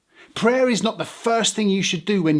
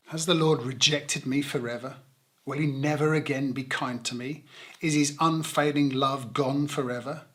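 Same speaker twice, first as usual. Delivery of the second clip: quiet reading; 3 semitones lower, 6 dB quieter than usual. Acted. Reading the psalm's questions.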